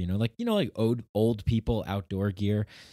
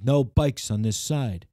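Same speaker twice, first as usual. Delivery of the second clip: stern walker; 4 semitones higher, 6 dB louder, slower than usual. Retold or imitated. Imitating grumpy walker.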